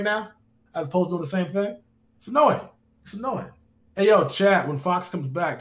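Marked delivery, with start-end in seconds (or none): 2.2-2.6 louder, higher, fed-up "It's annoying."; exasperated. Real, not acted. Streamer venting about repeated defense. 3.0-3.5 softer, resigned "It's annoying." under the breath; muttered. Real, not acted. Streamer venting about repeated defense.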